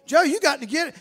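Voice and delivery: loud, high, indignant telling-off; scolding shout. Retold or imitated. Church members berating Joe at the altar, shouting. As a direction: scold him like the worst sinner.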